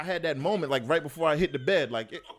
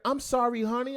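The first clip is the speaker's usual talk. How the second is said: meek mom; 11 semitones higher, 3 dB louder than usual. Retold or imitated. Mom meekly apologizing.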